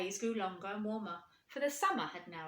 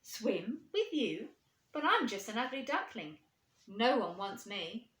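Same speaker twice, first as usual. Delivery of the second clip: unsure duckling; 4 dB louder than usual. Acted. Duckling doubts himself.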